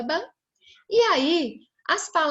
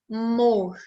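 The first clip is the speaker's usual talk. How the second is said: AMOR broken into two beats, a-mor; split into syllables; 3 dB louder than usual. Shown as a demonstration. Teacher separating a word for children, syllable by syllable. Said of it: "vamos lá agora separar essa sílaba".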